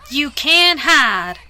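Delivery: a lurking monster taunting, very slow; dark monster voice. A narrator's reading. Monster taunting the hiding filly, slow menace. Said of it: "the monster spoke in a dark tone of voice".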